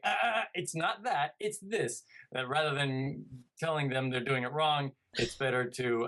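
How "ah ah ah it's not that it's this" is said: mock correcting. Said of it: "you're not necessarily supposed to be like".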